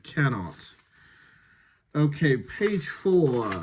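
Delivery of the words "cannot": "Cannot" with a broad British A and no stress pushed on the not; cannot demo. Shown as a demonstration. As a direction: say "Cannot" evenly, broad A, no negative push. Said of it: "one of the instances of stress not the negative".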